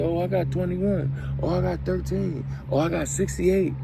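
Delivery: high mock brag; bragging inmate. Inmate bragging about his sentence, high mock voice. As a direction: toss it off high like a boast.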